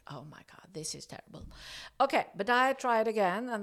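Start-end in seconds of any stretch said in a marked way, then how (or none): 0.1-1.5 much softer, under the breath; despairing mutter. Retold or imitated. Telling her frustration with the horse, softly under her breath. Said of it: "I was like".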